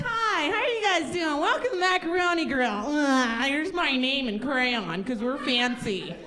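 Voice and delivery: hammed-up cheerful server greeting; perky waitress. Comic mocking the Macaroni Grill waitress, perky chirpy voice. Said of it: "the waitress comes over and she's like".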